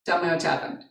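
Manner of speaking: retold calm listening; calmed-down mother. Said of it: "like, calm down and listen".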